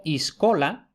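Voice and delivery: iscola with an I before the S; prothetic I. Shown as a demonstration. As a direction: start iscola on a clear I. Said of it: "en latín vulgar frecuentemente es I".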